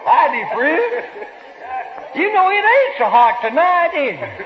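giggly, breaking into laughs between words; laughing while talking. Real, not acted. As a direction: chuckle your way through the greeting. Comic laughing through his lines.

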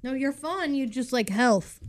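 talking through a mouthful; chewing candy while speaking; mouth full. Real, not acted. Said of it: "what are you eating".

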